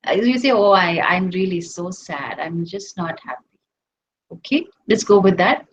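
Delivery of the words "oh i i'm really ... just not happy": lightly acted gloom, low pitch; mock dejection. Teacher voicing a seeker who feels so sad, mildly dejected. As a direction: sink lower and trail off softly, mildly sad. Acting out someone saying they are sad.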